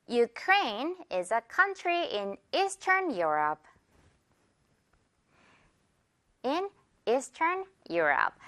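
very slow, "Ukraine" as yoo-KRAYN; spaced-out words for learners to copy; slow model sentence. Shown as a demonstration. Teacher gives the last example to repeat, slow spaced model sentence. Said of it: "바로 갈게요".

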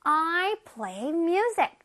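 I am a musician, said very slowly and clearly; teacher modelling the sentence slowly; slow model sentence. Shown as a demonstration. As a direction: read each word slowly for children to copy. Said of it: "그래서 한번 다시 보자".

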